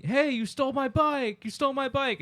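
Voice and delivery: high, playful mock yelling; mock accusation. Joking at a friend circling on a bike, high mock yell. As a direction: tease him with a fake accusation. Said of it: "as a joke".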